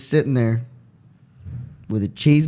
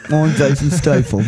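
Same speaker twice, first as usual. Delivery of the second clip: barely changed, laughing through a mock English voice; a faint hint of Jason Statham; Statham impression. Friend shows his Statham impression on the podcast, laughing mock accent. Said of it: "Here's my impression".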